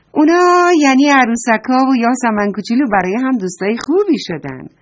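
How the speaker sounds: put-on storyteller beaming at the children; happy ending. A narrator's reading. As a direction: announce the happy ending with delight. Joyful ending of the tale.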